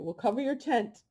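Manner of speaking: speaking through hiccups; hiccuping. Real, not acted. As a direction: hiccups breaking the words. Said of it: "I'm sorry, these hiccups start".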